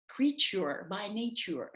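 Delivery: Creature by nature slow, Creature hit hard, laughing through it; emphatic, laughing. Shown as a demonstration. Speaker laughing at own emphasis, slow stressed Creature by nature. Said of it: "make an emphasis".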